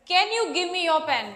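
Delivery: slow, clearly spaced request; slow demo. Shown as a demonstration. Teacher modelling a casual request slowly for class. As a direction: lay each word out for learners. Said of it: "पूछ भी रहे हैं और नहीं भी पूछ रहे हैं".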